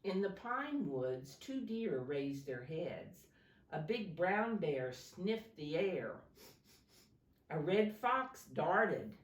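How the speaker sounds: storybook read-aloud to a class; gentle classroom story reading; reading to children. Acted. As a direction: read it like a picture book for little kids.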